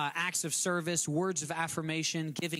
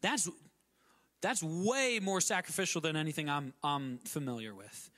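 mock amazement. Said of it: "The world goes".

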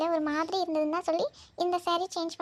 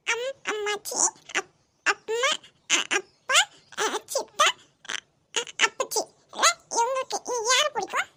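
put-on child voice; 3 semitones higher than usual. Voicing child listing.

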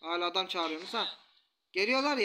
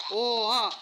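higher and louder, slowed astonished outburst; startled exclaiming at the screen; real surprise; 5 semitones higher, 3 dB louder than usual. Real, not acted. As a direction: gasp at something never seen before. Sudden enemy move surprises him.

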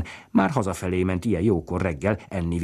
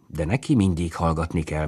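ordinary delivery

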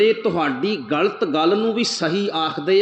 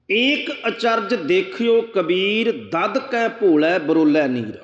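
slow, chanted reading of the verse; slow devotional recitation of gurbani; scripture recitation; 2 semitones higher, slower than usual. Acted. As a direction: draw out each word like a hymn line.

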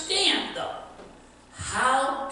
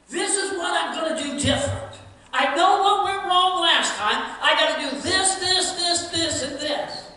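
eager promise; 4 semitones higher, 4 dB louder than usual. Retold or imitated. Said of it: "he always had a plan".

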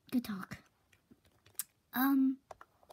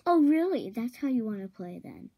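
indignant outburst; 6 dB louder than usual. Acted. Villain flares up at the insult, loud. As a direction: fling it back, affronted.

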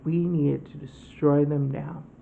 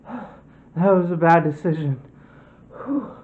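panting after a hard run; gasping between words; out of breath; 5 dB louder than usual. Acted. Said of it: "let me catch my breath here".

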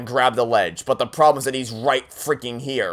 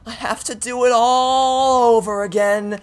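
anguished despair; 5 semitones higher than usual. Real, not acted. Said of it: "This is pain".

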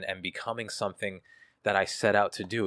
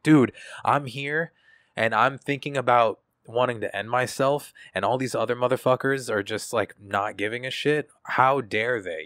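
retold angry rant; 4 semitones higher, 5 dB louder than usual. Replaying his anger at people around him, raised indignant voice. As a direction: rage at everyone for not caring. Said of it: "I was mad at everybody around me".

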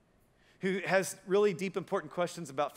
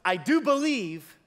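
slow, louder, higher cry of a desperate father; pleading father; 5 semitones higher, 6 dB louder, slower than usual. Retold or imitated. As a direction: beg like a father with a sick son. Father begging Jesus for healing.

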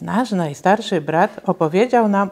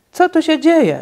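high, louder alarmed Co tu się dzieje; father bursting in, shocked; startled call; 9 semitones higher, 4 dB louder than usual. A narrator's reading. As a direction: tata walks in on magic and calls out. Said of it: "zawołał".

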